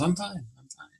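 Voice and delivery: put-on hushing a crying baby, lightly high and soft; soothing baby. Father soothing his crying daughter, high soft hush. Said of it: "I'm thinking to myself".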